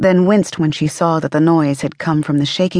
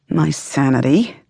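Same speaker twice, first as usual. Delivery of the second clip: muttered under the breath. A woman answers her mother's inner voice, muttered under her breath. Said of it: "she muttered under her breath".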